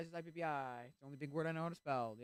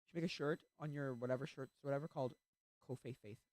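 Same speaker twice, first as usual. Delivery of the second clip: excited; 12 dB louder than usual. Retold or imitated. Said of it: "my friend was like".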